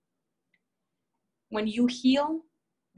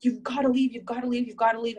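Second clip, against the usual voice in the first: furious; 3 semitones higher, 4 dB louder than usual. Retold or imitated. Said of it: "My mom was furious".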